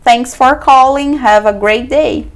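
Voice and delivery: slow, polished phone farewell; slow polite sign-off. Shown as a demonstration. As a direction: close the call slowly and politely. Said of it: "aí você finaliza". (despedida lenta e educada)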